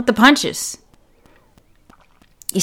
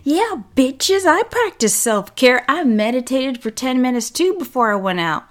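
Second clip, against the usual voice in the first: smug bragging; 4 semitones higher than usual. Retold or imitated. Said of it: "you're like".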